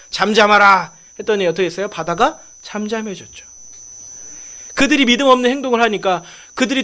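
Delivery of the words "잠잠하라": louder, authoritative order; acted command. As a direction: command the sea to be still. Jesus commanding the sea. (힘주어 명령하는 말투)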